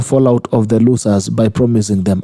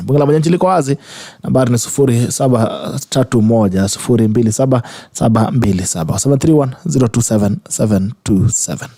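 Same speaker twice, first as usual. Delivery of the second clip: radio announcer. Acted. Host announces the call-in number.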